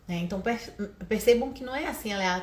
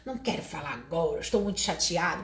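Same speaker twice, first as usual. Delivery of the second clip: sulking parent; 5 semitones lower, 3 dB quieter than usual. Retold or imitated. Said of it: "a criança vem falar com você e fala".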